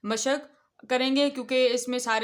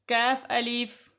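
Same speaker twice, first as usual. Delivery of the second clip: کاف الف said slowly, leaning on کاف; slow letter reading; much slower than usual. Shown as a demonstration. Teacher to children, slow spelling of the letters. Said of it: "اگلی دیکھتے ہیں line".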